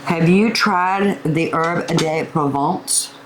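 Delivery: slow, slight stab at a French accent; attempted French accent. Shown as a demonstration. Cook asks viewers about the herb blend, attempted French accent. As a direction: try a little French on "Herb de Provence", not quite working. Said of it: "with a little French accent".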